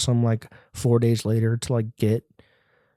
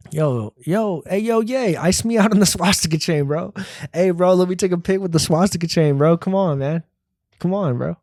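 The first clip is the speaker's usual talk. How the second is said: higher, eager begging fan; hyped fan; 6 semitones higher than usual. Pretend. Vlogger pretending to beg a rapper, high and eager.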